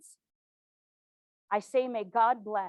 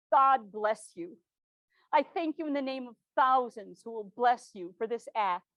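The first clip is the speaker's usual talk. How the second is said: heartfelt thanks; 3 semitones higher than usual. Acted. Thanking the president for the hospitals order, fervent and tearful. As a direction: pour out grateful blessing on the president. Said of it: "I wept for joy".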